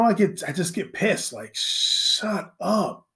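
ordinary talk, nothing marked

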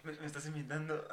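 laughing. Retold or imitated. Mocking the repeated question.

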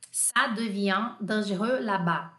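slow, evenly spaced French. Shown as a demonstration. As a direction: say it slowly for learners. Teacher repeats French phrase more slowly.

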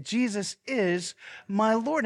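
slow, weighted creed; slow declaration. Shown as a demonstration. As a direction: pastor models the line for the room. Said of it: "Say it".

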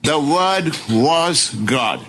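"The Word was God" slow and deliberate; clear emphasis. Shown as a demonstration. Preacher restating the verse without doubt, clear emphasis. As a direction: space out WORD, WAS, GOD with a firm fall. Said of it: "clear distinction or clear emphasis".

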